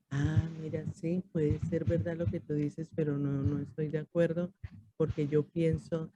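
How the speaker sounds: re-enacted quiet, measured disagreement; speaking softly. Answering someone who yelled at her, in a soft voice. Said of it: "y le hablé pasito".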